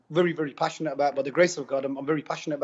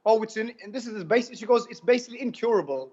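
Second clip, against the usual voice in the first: higher-pitched voicing of a nurse; imitated nurse; 5 semitones higher than usual. Nurse telling a patient about colitis, lightly imitated in higher pitch.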